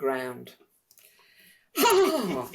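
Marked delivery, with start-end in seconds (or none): 1.8-2.5 a loud, much higher Ha; roaring laugh. A narrator's reading. Dragon being tickled, roaring with laughter. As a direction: burst out with one big laugh. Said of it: "roared the dragon".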